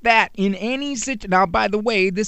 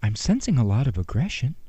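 soft, sugary, ultra-polite parent voice; mock-gentle sweetheart tone; overly gentle parent; 7 semitones lower, 5 dB quieter than usual. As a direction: ask so sweetly it's almost silly. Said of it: "anything more than".

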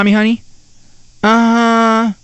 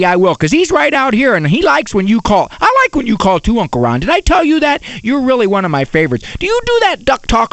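put-on chattering little girl; 3 semitones higher than usual. Daughter gushing to Uncle Ron on the phone, imitated little-girl chatter. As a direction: prattle on happily without a pause. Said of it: "when the eight-year-old girl answers the phone".

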